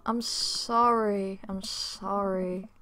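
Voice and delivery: very slow, stretched sorry; drawn-out apology. Acted. Apologising after calling it a night, long and drawn out. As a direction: drag each apology right out.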